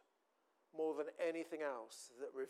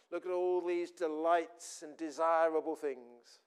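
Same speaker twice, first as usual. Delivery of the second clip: tempting devil; 8 dB louder, slower than usual. Acted. Devil tempting Jesus, voiced.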